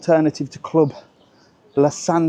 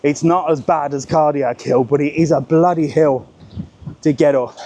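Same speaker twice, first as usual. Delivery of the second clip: out of breath. Real, not acted. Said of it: "I'm out of breath now".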